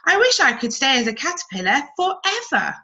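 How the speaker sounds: longing to stay small forever; wistful caterpillar. Acted. Cody wishes to stay.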